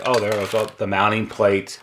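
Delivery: ordinary talk, nothing marked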